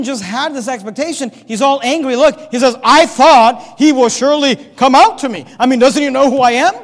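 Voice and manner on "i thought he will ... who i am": indignant Naaman. Acted. Preacher voices angry Naaman.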